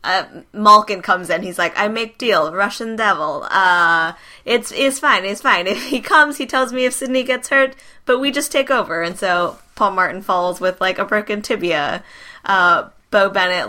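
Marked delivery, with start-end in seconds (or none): 1.8-9.0 bad Russian accent, hammed-up; a clumsy fake Russian accent. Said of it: "the worst Russian accent I've ever done".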